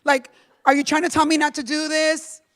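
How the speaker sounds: pleading prayer. Retold or imitated. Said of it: "fighting with God".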